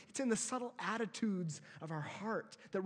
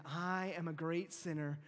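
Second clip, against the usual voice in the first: quiet confession; 5 semitones lower, 4 dB quieter than usual. Shown as a demonstration. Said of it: "Wake up each morning saying".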